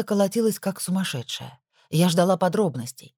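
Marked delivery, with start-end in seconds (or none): none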